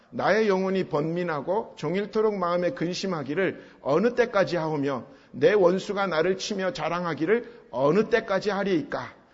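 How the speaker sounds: measured congregational Bible reading; formal recitation for reading together; scripture reading. Acted. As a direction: read the psalm aloud in steady, even phrases. Reads scripture aloud with congregation.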